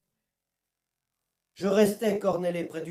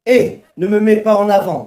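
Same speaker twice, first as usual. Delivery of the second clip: angry shout; 3 semitones higher, 9 dB louder than usual. Acted. Quarrel over who is to blame.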